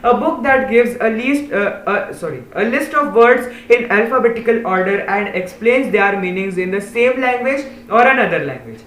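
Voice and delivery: slow, deliberate reading of a definition; slow read-aloud. Shown as a demonstration. Teacher slowly reading the dictionary definition to pupils. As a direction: spell out each word for the class.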